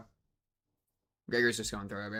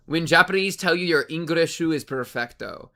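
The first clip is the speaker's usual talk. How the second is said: put-on Japanese accent. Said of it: "Japanese accent".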